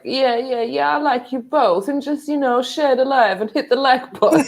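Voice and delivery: ditzy mock voice. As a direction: play him as a dodging airhead. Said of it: "He just sounds a bit ditzy to me".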